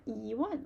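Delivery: E gliding up, one falling; rising tone on E. Shown as a demonstration. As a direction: lift E, then drop one. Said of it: "change to a rising tone".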